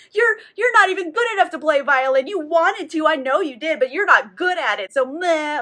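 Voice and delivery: put-on whiny, fast childish taunting; bratty toddler voice. Narrator mocking Stefan's toddler tantrum at his wife, whiny and fast. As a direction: sneer at her like a sulky kid. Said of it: "just being a toddler about it".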